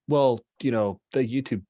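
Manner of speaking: softly trailing, nervous explanation. Acted. Blue Orchid explains away the scary show, nervously. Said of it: "Blue, Blue Orchid nervously says".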